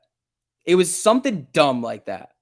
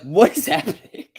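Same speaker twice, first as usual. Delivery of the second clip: baffled retold question; 8 semitones higher, 5 dB louder than usual. Retold bewilderment.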